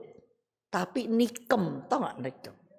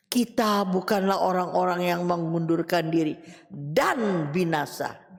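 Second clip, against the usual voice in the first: lightly solemn verse quote, sinking at binasa; quoting scripture; 4 semitones lower than usual. Acted. Preacher reminding friends what the verse says, grave. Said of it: "Ini kata ayat loh".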